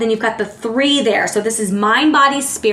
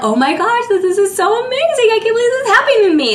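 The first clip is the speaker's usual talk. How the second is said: much higher and louder, racing gush; excited like a kid; 11 semitones higher, 3 dB louder, faster than usual. Retold or imitated. Reader voicing a Gemini overjoyed at sudden luck, excited. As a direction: gush with childlike disbelief, faster and faster. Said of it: "They're like".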